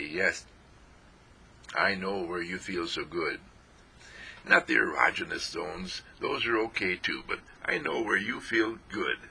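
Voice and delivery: quietly reassuring your own body; gentle reassurance. Shown as a demonstration. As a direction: soothe your body like a child. Speaking gently to one's body.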